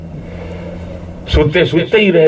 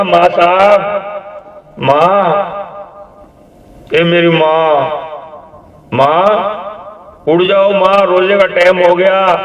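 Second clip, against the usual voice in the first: raised, pleading calls to wake her; calling out; 5 semitones higher than usual. Acted. Son calling his sleeping mother to wake for the fast, raised and pleading. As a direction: call up to a mother who won't stir.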